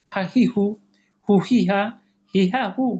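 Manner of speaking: "হা, হি, হু" called out loud; loud ha drill. Shown as a demonstration. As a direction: belt the syllables out. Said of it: "আরেকবার যদি চর্চা করি".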